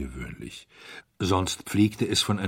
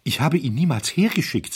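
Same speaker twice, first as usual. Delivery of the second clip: high, loud, agitated protest; distressed; 7 semitones higher, 5 dB louder than usual. A narrator's reading. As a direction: protest as if wringing your hands. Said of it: "rang gequält die Hände". (gequält und aufgeregt)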